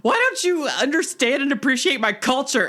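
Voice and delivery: high, laughing joke advice; giggling through it. Real, not acted.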